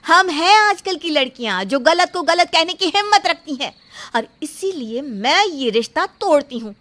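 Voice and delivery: loud, proud and rising at the end; defiant declaration. Acted. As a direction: stand tall and break it off before everyone. Bride defiantly breaks off the engagement. (सबके सामने रिश्ता तोड़ती, ऊँची आवाज़ में)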